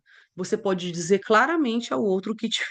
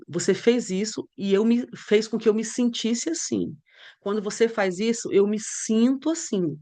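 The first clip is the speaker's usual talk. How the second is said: calm and open. Shown as a demonstration. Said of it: "Você pode mudar a forma de falar e falar assim".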